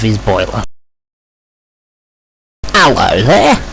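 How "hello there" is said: friendly, higher-voiced hello; polite greeting. Rusty welcoming the new engine, polite. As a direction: greet a stranger courteously. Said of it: "greeted Rusty politely".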